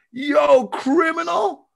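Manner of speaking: high, drawn-out cry of outrage; outraged exclamation. Real, not acted. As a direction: stretch out criminal in disbelief. Outraged reaction to test prices.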